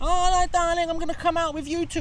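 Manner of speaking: very high, posh, put-on mock lady voice.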